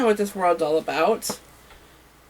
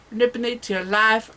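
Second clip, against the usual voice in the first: southern accent. Shown as a demonstration. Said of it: "Why did I say that in a southern accent?".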